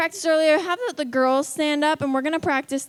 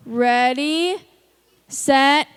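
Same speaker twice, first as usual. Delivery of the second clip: starting shout; 5 dB louder, much slower than usual. Real, not acted. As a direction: call it out like a starter. Starts the boys' contest.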